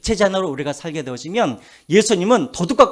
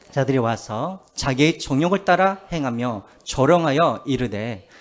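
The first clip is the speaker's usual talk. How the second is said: measured, deliberate Bible recitation; scripture reading; 3 dB louder than usual. Acted. Preacher leading the congregation in a verse, recited deliberately. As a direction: read the verse out for all to follow.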